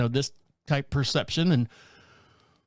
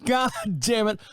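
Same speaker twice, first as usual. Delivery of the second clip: frustrated; 3 semitones higher, slower than usual. Retold or imitated. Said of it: "and I go".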